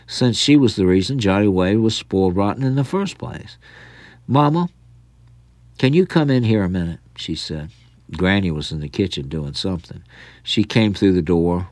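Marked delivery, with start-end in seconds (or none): 4.3-7.0 higher call to another room. Acted. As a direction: call her in, quickly. Aunt calling from other room.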